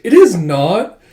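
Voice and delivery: high, loud contradiction; flustered denial. Retold or imitated. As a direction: insist on it, embarrassed and defensive. Yona denies Jeha's teasing.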